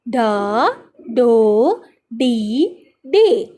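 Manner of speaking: put-on slow, stretched-out syllables for young learners; teacher's measured read-along chant; spelling drill. Shown as a demonstration. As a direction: sound out each letter, then draw out the blended word. Reading drill for children.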